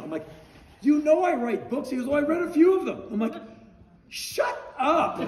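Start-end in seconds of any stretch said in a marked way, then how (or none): 0.8-1.9 high, loud disbelieving blurt; astonished retort. Retold or imitated. Retelling meeting Bowie, astonished. 2.1-3.0 high, loud eager reply in his voice; imitating eager Bowie. 4.1-5.2 high, playful shut up of awe; amazed disbelief. Retold or imitated. Retold amazed reaction.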